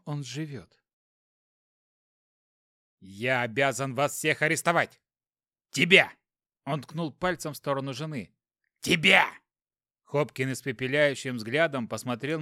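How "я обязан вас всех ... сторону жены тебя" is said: angry shout. Acted. Inspector arresting everyone, shouting.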